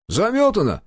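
high-pitched quick deal-sealing exclamation; eager agreement. A narrator's reading. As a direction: agree on the spot, emphatically. Hunter agrees at once. (охотное согласие)

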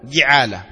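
جعالة said with an i after the jim; جعالة بكسر الجيم; ji'ala with kasra. Shown as a demonstration. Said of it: "بفتح الجيم وكسرها وضمها".

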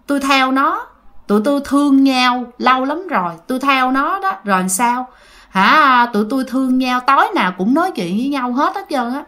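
a touch of eerie, whiny spirit voice; strange squeaky voice. Retold or imitated. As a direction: retell the ghost's defiant claim with a hint of squeakiness. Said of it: "một cái giọng éo éo rất là kỳ".

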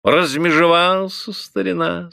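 a hint of folksy squire chatting up the bailiff; mock folksy. A narrator's reading. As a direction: play the jovial squire. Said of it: "желал подделаться под мужицкую".

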